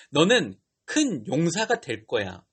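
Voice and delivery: slow, measured angelic declaration; angel of God. Retold or imitated. Angel tells fearful Gideon his calling, slow and measured. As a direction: announce it slowly as God's messenger. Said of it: "하나님의 사자가 찾아와서 이렇게 말하는".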